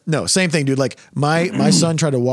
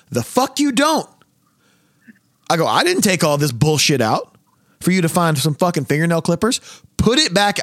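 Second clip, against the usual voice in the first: higher, heated retold yell at TSA; mock angry retort; 5 semitones higher than usual. Retelling yelling at TSA agents, heated. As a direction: snap back at the agents.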